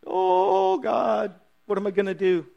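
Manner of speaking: a man flat on his face, panicking; freaking out. Retold or imitated. Joshua on his face crying out in panic. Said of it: "you see him freaking out".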